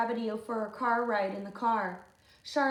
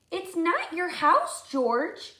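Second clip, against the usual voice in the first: put-on high, slow, pleading girl's voice; a small girl insisting it isn't his; protesting Lindy; 6 semitones higher, 6 dB louder, slower than usual. Lindy telling George off, high and slow.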